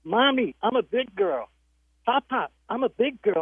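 put-on high, proud toddler voice; little girl voice. Grandma voices granddaughter announcing she's big, high pitched. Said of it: "she goes".

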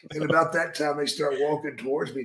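normal talking voice

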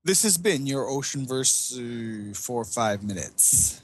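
slow, grand announcer sign-off; old radio announcer. Pretend. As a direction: wrap it up like a vintage radio host.

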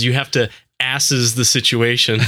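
"asses" said ASS-iz in place of assess; retold line landing squarely on ASS-es; mispronounced word. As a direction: slowly deliver ASSES with stress up front. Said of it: "she says".

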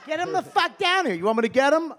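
high loud exasperated shouting; whole house demanding the boy come down; family yelling. Retold or imitated. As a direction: bellow for the kid down the stairs. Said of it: "Everybody was like".

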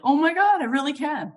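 gasping at how much your heart can open; amazed realization. Retold or imitated. Marvelling at herself during meditation, suddenly high and loud. Imagined own amazed inner voice.

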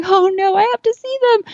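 high mock-desperate plea; desperate whine. To her mom as the horses get away, high pleading whine. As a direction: whine like a kid missing out. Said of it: "I'm like".

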